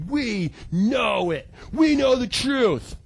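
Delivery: slow, self-righteous insistence; smug self-righteous. Retold or imitated. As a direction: lay down the truth slowly and smugly. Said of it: "they were super angry and like".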